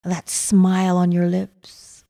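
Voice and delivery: normal talking voice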